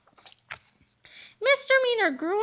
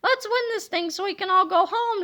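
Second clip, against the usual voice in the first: mild shout; 4 semitones higher than usual. Acted. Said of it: "shouted Old Harold".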